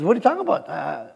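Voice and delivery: soft, mild puzzlement; hushed, acted divine reply; the Lord answering. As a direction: play God gently dismissing a forgotten matter. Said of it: "The Lord says".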